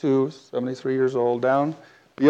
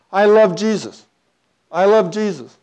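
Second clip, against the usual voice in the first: imitated crying woman; 4 semitones higher than usual. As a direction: mimic a weeping woman's plea. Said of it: "She's just crying".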